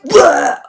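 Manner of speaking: high, loud fake dying "Blah"; mock death blurt. Raven expiring, comic death blurt. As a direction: flop over dead comically.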